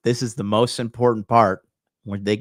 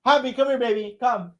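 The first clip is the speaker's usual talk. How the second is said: calling the dog; 11 semitones higher than usual. Real, not acted. Owner calling their dog Happy to come, high and coaxing. Calls own dog over.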